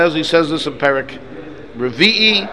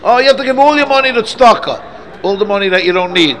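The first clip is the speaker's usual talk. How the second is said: mock high voice; 5 semitones higher, 4 dB louder than usual. Mock quote of a wrong view.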